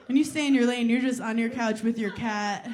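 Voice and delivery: ordinary talk, nothing marked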